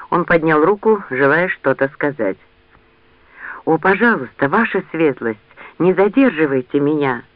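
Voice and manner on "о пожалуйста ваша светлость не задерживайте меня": pleading. Acted. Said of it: "взмолилась Лианна".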